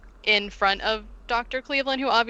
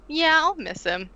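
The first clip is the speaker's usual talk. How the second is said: airy high voice; 8 semitones higher than usual. Retold or imitated. Sister voiced airily.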